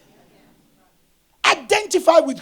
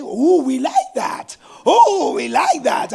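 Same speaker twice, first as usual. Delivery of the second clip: admiring cry; 2 semitones higher, slower than usual. Retold or imitated. Guests admire his outfit, retold.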